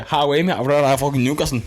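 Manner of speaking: quick, lightly mocking Geordie impression; Geordie accent. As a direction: put on a jokey Geordie accent. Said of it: "the Geordie accent".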